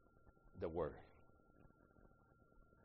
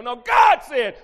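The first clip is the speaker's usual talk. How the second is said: preaching shout; 11 semitones higher, 20 dB louder, much slower than usual. Acted.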